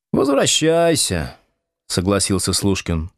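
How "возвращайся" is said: mock farewell. Husband mockingly sees guest off.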